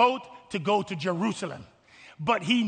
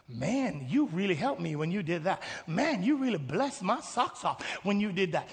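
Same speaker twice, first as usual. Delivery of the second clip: acted heartfelt thanks; 5 dB quieter than usual. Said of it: "an abundance of people saying".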